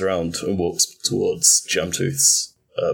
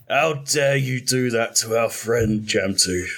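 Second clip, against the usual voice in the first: cold fury; 3 semitones higher than usual. Acted. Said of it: "all trace of his, like, happy-go-lucky, upper-class British accent have gone".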